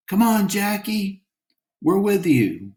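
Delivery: high cheering call to the player; root for Jackie at the radio; cheering yell. Acted. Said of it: "one of the women yelled".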